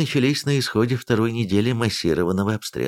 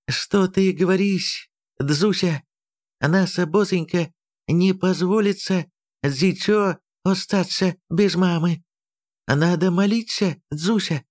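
put-on high voice, Chinese accent; lisping Chinese-accented Russian; 9 semitones higher than usual. A narrator's reading.

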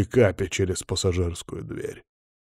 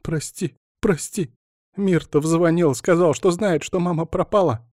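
high, tearful, pleading apology; crying; 9 semitones higher than usual. A narrator's reading. Alina apologizing to wounded Bogdan, crying and pleading. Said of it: "плакала Алина".

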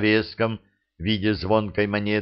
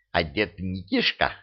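ordinary delivery, nothing marked

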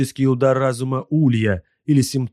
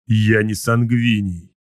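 slow, pressed through clenched teeth; through gritted teeth; slower than usual. Acted. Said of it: "произнёс он сквозь сжатые зубы". (сквозь сжатые зубы)

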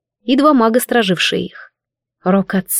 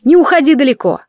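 calling after; 3 semitones higher, 4 dB louder than usual. Acted. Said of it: "донеслось вслед".

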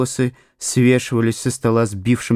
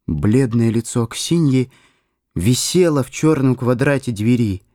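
usual speaking voice

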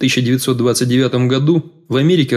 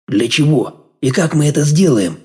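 rattled question rising to a higher note; voice jumping high; 4 semitones higher than usual. A narrator's reading. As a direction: let the voice jump up on the question. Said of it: "Голос сорвался на высокую ноту". (голос срывается на высокую ноту)

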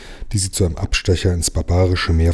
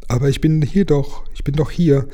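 high little voice calling out; a small sea creature insisting she's there; tiny voice calling; 7 semitones higher than usual. A narrator's reading. Mermaid calls to Lukas and Jim, high and tiny. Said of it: "rief das Stimmchen ganz nah".

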